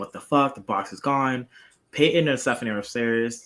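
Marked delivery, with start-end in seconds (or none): 0.0-1.5 mock, enraged, furious swearing outburst. Retelling what Mark said when the box was gone: imitating furious Mark. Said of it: "Mark was, like, so furious".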